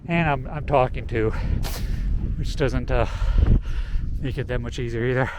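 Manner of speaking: out of breath, pausing between phrases; winded from the steep climb; breathless at high altitude. Real, not acted. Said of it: "I have to breathe more".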